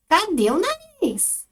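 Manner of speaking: "Cadê o nariz?" agudo, lento, subindo; pergunta espantada. Shown as a demonstration. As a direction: pergunta intrigada, arrastando. (pergunta de espanto, aguda e lenta)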